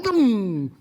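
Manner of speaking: vocal 'boom' of a flare-up; sudden drawn-out 'dum', falling away; imitated ignition noise. Shown as a demonstration. Preacher imitates hotheads flaring up like matches, explosive noise.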